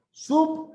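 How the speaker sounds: SUB pitched high, cut off from the rest of the word; prefix split off. Shown as a demonstration. Teacher splitting off a prefix for the class, SUB high and separate. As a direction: say SUB high, as a piece on its own. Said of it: "al otro lado".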